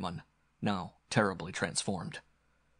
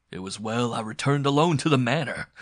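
louder villain's boast; gloating; 3 semitones higher, 7 dB louder than usual. Acted. Villain crowing to his captive, gloating. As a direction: boast with raised voice. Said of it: "laughed the Octoroon".

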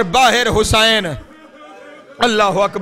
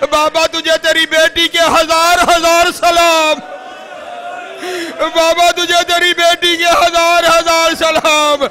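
tearful plea; 4 semitones higher than usual. Acted. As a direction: plead to the father, voice rising. Daughter's letter, rising lament. (بیٹی کی پکار، بلند اور دردناک)

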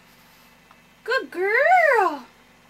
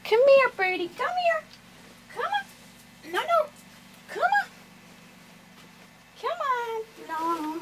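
coaxing a wild bird; 4 semitones higher than usual. Real, not acted. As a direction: coax the bird gently out.

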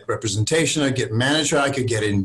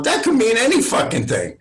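much higher, amused bafflement; laughing disbelief; 11 semitones higher than usual. Retold or imitated. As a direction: laugh at a cryptic remark. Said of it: "I'm like, going".

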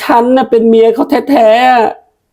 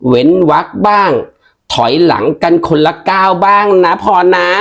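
lower-pitched village aunt, scolding then soothing; 5 semitones lower than usual. Acted. Aunt calming the unhappy wife down, lower aunt voice. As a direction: talk her down like an old aunt. Aunt figure advising Phorn.

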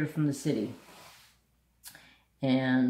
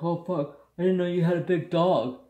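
neighbor voiced higher and louder, quick and panicky; startled neighbor; 4 semitones higher, 6 dB louder than usual. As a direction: blurt it fast like a scared guy caught out. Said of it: "He's like".

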